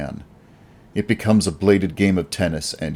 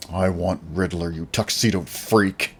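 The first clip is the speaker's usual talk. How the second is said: hiss. Acted. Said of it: "I hiss at him".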